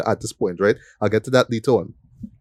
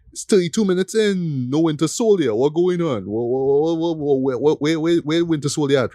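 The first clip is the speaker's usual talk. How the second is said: mock-baffled complaint, pitched up; impatient viewer; 5 semitones higher than usual. Host mimics viewers waiting for Winter Soldier, impatient and baffled. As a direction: stammer in exaggerated confusion, voice lifted.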